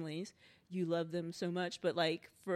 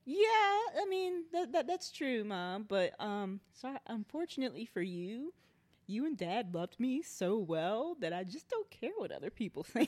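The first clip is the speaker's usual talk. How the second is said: playful high reply; 3 semitones higher than usual. Retold or imitated. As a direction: sweetly answer her mom back. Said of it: "And I'm like".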